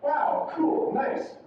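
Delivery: "Wow, cool, nice" all pitched very high; high intonation. Shown as a demonstration. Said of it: "It's gonna be a very high one".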